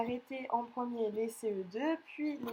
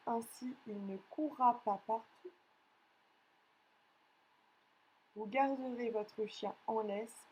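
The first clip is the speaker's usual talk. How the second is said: dictating. Acted. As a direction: read each chunk out for pupils to write. Teacher reads a dictation.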